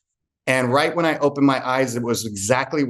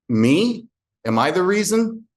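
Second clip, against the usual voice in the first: higher, rising mock disbelief; incredulous question; 6 semitones higher than usual. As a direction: ask as if taken aback, pitched up. Retold surprised question to uncle.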